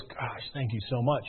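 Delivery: soft, low, slow gratitude; retold heartfelt thanks. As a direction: thank them quietly, drawing it out. Customer retold, thanking agent.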